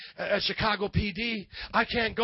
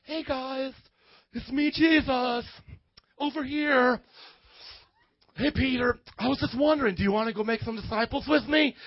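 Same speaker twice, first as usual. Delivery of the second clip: mock timid Jesus. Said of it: "you think Jesus is a sissy".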